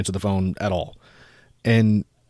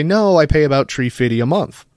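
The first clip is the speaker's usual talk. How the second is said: put-on cartoon dad voice, a bit higher; Chef's dad impression; 5 semitones higher, 4 dB louder than usual. Answering the caller about the card balance, in character. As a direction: stay in the hammed-up dad voice. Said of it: "Again, in the voice".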